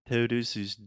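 Todos os dias with an English T; foreigner's Portuguese, English-style T; gringo accent. Retold or imitated. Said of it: "when you hear gringos say".

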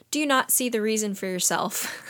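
understated, unmoved reply; quoted with a touch of detachment; indifferent. Retold or imitated. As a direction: say it with mild indifference. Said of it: "Bartleby indifferently replies".

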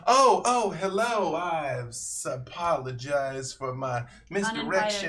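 startled, flustered high voice, then settling; flustered gasp. Acted. A startled sister greets the uninvited guests, flustered and high. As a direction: catch yourself mid-fluster, then apologize.

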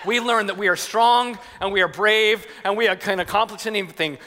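lightly hammed-up rousing speech; a hint of an orator, emphatic phrases slowing to the end; dad playing the inspirational statesman; Teddy Roosevelt. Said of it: "I was like Teddy Roosevelt".

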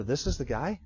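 low murmured doubt to a neighbour; hushed aside. Retold or imitated. Crowd member murmuring to his neighbour, hushed and doubtful. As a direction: lean over and mutter it sceptically. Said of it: "talking over here like this to this guy".

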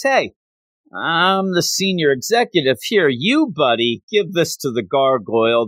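self-important order, starting high-pitched; bossy. Acted. Senior officer passing the chore to somebody he can boss around, bossy. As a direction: pull rank on an underling. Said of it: "somebody that he can now boss around".

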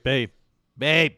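mock Boston wake-up call; Boston accent. Pretending to wake a wife, Boston accent. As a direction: nudge her awake in put-on Boston. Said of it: "wife up in the Boston accent".

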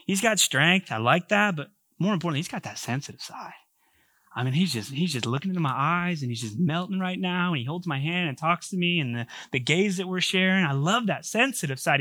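softly voiced, lightly acted swooning; smitten woman. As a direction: play her quietly melting over his sensitive side. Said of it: "looking at him like".

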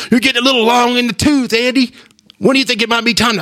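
high, quick patronizing TV-host imitation; mocking Terry Bradshaw. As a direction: lightly mimic a condescending interviewer. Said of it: "And then he was like".

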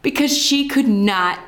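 breathless laugh, almost whispered. Real, not acted. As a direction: giggle it out on an airy breath.

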